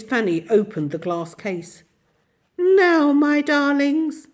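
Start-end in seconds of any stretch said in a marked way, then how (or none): 2.6-4.3 put-on slow, sweet, coaxing old lady; sweet and different. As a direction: coax the children sweetly. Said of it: "in quite a different voice".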